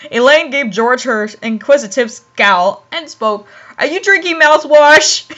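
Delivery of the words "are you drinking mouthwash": "mouthwash" punched a little at the end; stress on mouthwash. A narrator's reading. Elaine questioning George about his drink, emphasis on "mouthwash". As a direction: lean on "mouthwash" as the question ends. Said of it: "She emphasized the word mouthwash".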